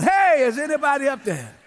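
lightly acted holler; mild cry for help. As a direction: call up from the pit, moderately loud. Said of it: "about that loud".

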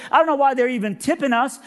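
high-pitched, gushing woman's voice; high, amazed put-on voice; dumbfounded cleaning lady. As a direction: imitate an overwhelmed hotel cleaner, high. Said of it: "We're all just dumbfounded".

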